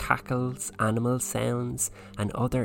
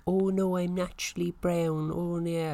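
high mocking denial voice; mock high protest; 9 semitones higher than usual. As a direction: squeal it out in a high voice. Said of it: "I've seen you with your".

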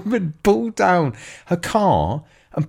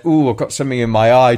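mild-mannered dog; 3 semitones lower, faster than usual. Pretend. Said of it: "goes from mild-mannered".

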